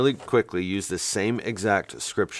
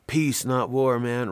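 hippie voice; 4 semitones higher, slower than usual. Retold or imitated. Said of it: "my best hippie voice".

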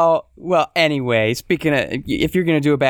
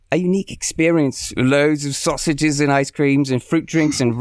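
bad Australian voice; 2 semitones higher than usual. Host reads a Sydney tourist's review in a light Australian accent. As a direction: read it like a chirpy Aussie reviewer, half-hearted. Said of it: "I'm gonna try a bad voice as well".

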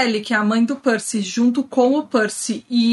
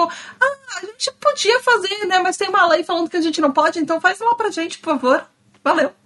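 mock lazy gods; 6 semitones higher than usual. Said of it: "eles são meio que tipo".

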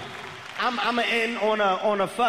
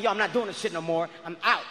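fed-up rant; 4 semitones lower than usual. Retold or imitated. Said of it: "It's at a point where I'm pissed".

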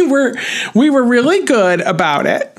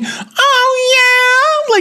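high excited scream of joy. Retold or imitated. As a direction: yell it out high and thrilled. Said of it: "Christine screaming".

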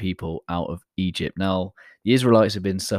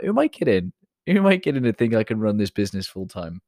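self-doubting; faster than usual. Retold or imitated. Retelling his own self-doubt.

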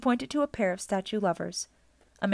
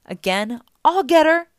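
higher, loud cry of attack; excited battle yell; 9 semitones higher, 10 dB louder than usual. A narrator's reading. Grover swings at Medusa from the air, yelling. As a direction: build to a shout.

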